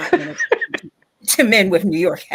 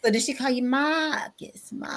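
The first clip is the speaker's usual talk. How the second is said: hushed, breathy question; teasing whisper; 5 semitones higher, 5 dB quieter than usual. Real, not acted. Co-host teasing him about the name in a whisper. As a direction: whisper it like a secret joke. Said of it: "teasing whisper".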